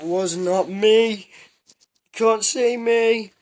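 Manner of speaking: very slow, high, loud squeak; mock tiny voice. Pretending to hide from the principal, high silly squeak. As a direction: play at hiding in a silly squeaky voice.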